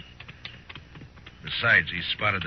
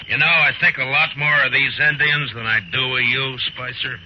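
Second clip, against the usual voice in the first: scornful; 4 semitones higher, 4 dB louder than usual. Acted. Marshal scorns the outlaw.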